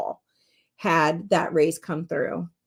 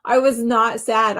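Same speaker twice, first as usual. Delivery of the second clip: laughing; 4 semitones higher, 4 dB louder than usual. Real, not acted. Relief after car repossession.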